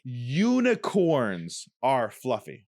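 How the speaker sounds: slow, stretched syllables; over enunciating. Shown as a demonstration. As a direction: exaggerate each syllable for lip reading. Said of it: "You have to read my lips".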